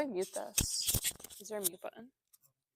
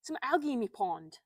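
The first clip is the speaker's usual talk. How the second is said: bad mock British accent; 3 semitones higher, 4 dB louder than usual. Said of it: "That was awful".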